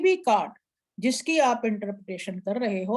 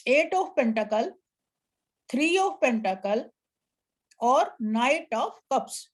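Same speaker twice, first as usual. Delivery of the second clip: slow card names; much slower than usual. Shown as a demonstration. Teacher reads out card names.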